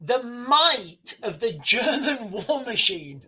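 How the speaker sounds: slow, words breaking into a laugh; a choked laugh through the phrase; emotional half laugh. Real, not acted. Streamer on the veteran's tears, slow choked half laugh. Awed by wartime history.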